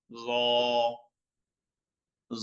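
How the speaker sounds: জ said as thick tha, tongue at teeth; thick full-mouthed জ; Arabic tha sound. Shown as a demonstration. Teacher demonstrating Arabic letter, thick জ. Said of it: "এক আলিফ টেনে পড়তে হবে".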